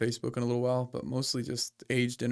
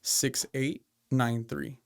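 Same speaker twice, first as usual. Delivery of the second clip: slow, deliberate number dictation; dictating; slower than usual. Shown as a demonstration. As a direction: read the digits out slowly, one by one. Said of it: "give you my license number".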